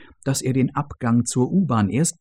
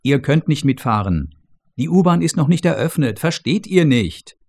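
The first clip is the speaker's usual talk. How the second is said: brusque and higher, brushing them off; impatient boss snapping back; irritated, dismissive refusal; curt, annoyed; 3 semitones higher, 3 dB louder than usual. Acted. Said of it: "antwortet unwirsch".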